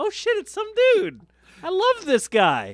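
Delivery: mock excited fan; mock excitement. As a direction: gush like a fan. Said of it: "Just go".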